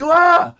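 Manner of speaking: sharp, high, loud yelp of fright; freaked-out scream; startled yelp. Retold or imitated. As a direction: let out a scared shriek. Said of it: "I was like".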